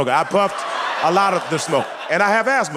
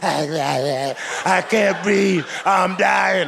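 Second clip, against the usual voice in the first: mock gasping; 3 semitones higher, much slower than usual. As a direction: stretch out the can't like choking. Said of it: "before she went".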